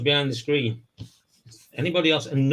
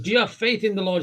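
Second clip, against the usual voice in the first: preacher voice; 8 semitones higher, faster than usual. Retold or imitated. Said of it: "He said".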